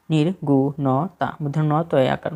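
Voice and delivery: "নির্গুণতা" split slowly into nir, gu, no, ta; spelled out slowly. Shown as a demonstration. Teacher shows learners the correct spelling, syllable by syllable. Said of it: "সঠিক বানানটি দেখেন".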